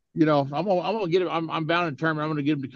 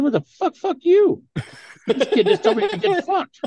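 high, loud indignant yell breaking into laughter; retold shout; 4 dB louder than usual. To a bystander defending the kid, a high laughing shout. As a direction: yell it back at him, half laughing. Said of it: "I said".

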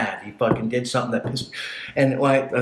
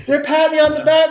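laughing narration; 7 dB louder than usual. Real, not acted. Still laughing telling story.

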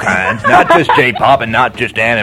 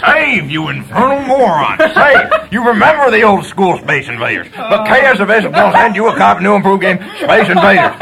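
hammy shouted ad; 5 semitones higher than usual. Acted. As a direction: yell the giveaway, laughing. Hammy shouted game giveaway ad.

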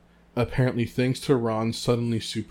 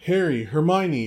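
higher, louder excited call; yelled; 6 semitones higher, 7 dB louder than usual. A narrator's reading. Ron hailing his friends with the Cup, yelling. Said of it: "yelled Ron".

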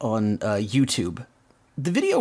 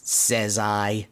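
level, deadpan retort; lightly imitated echoing spring; spring's echo; 3 semitones lower than usual. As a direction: answer back in monotone. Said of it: "the echo of his voice".

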